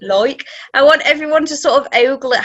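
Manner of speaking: put-on Southern English Cockney accent. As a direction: say like the Cockney way, like loik. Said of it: "like, really Southern".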